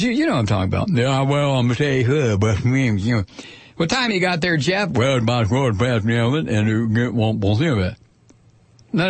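mumbled Southern senator impression; mushy words, mouth full of cotton; marble mouth. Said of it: "old marble mouth from Alabama".

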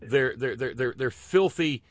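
slow, drawn-out sarcastic emphasis; mocking sarcasm. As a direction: lean hard and slowly on each mocking phrase. Sarcastic mock disgust at sexism.

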